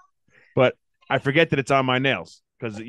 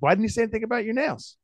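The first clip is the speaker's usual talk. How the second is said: imitating upset wife; 10 semitones higher than usual. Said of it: "She's like, upset".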